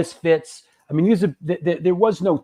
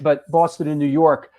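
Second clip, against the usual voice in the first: glitchy robotic call audio; choppy, robotic bad connection; faster than usual. Real, not acted. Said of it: "you sound like a robot".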